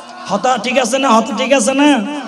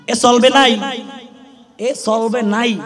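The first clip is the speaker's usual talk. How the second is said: Satkhira dialect; 3 semitones higher, 4 dB quieter than usual. Shown as a demonstration. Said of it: "সাতক্ষীরার ভাষা যদি আমি বলি".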